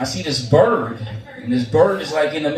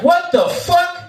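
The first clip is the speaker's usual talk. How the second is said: much higher, slow, incredulous boss voice; stunned boss; 13 semitones higher, slower than usual. Retold or imitated. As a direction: play the boss gaping at the scorched ground. Boss sees the burnt field.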